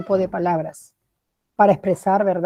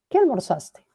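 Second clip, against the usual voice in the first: "Qué" pitched high, then falling through "almorzaste"; question intonation; 5 semitones higher than usual. Shown as a demonstration. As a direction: punch up "Qué" as a question word. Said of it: "tiene entonación de pregunta".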